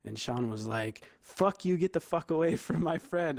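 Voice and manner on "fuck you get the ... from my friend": higher, lightly heated retelling; mock protective outburst. Friend fends off the crowd, mildly angry imitation. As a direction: imitate a friend warning people off.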